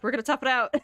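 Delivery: determined shout, played for fun; retold rallying cry. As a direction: call it out with bold resolve. Retells their defiant rallying cry.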